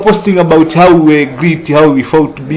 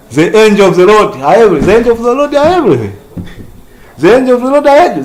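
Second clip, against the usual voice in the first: each repeat faster and more urgent; building fervent repetition; 3 semitones higher, much faster than usual. Real, not acted. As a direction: drive the line home harder each time. Preacher repeats, building force.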